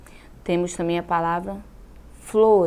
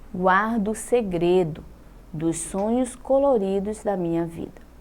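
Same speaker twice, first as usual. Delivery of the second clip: put-on a teacher lightly reading a children's poem aloud. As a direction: read the poem gently to the class.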